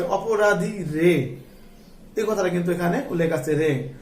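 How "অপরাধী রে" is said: slow emphasis. Shown as a demonstration. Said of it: "কি কথা আছে?".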